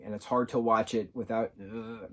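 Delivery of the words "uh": exasperated groan. Shown as a demonstration. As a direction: groan as if driven crazy. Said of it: "going like that".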